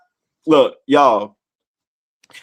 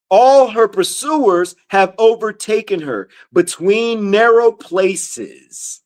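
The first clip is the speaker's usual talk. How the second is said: slow, deliberate verse reading; scripture reading; 2 semitones higher, slower than usual. Acted. Preacher reads verse three to listeners, slow scripture reading. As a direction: read it out word by word, slowly.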